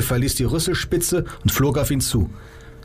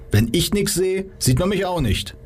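high, light and cocky; pitched well up like a smug kid; chirpy high voice; 8 semitones higher than usual. Acted. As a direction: Joe brightly explaining his simple trick, high. Joe explains his trick.

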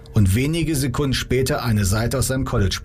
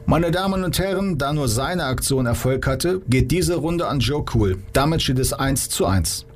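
announcer; 3 semitones higher than usual. Acted. Wright announces the round.

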